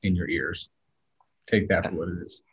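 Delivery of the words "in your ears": muffled, like through water; speaking from underwater. Real, not acted. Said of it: "He might sound like he's underwater".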